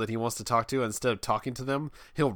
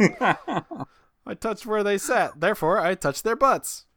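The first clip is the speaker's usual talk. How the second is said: slow mock kid; 9 semitones higher, 4 dB louder, slower than usual. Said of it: "mock kid logic".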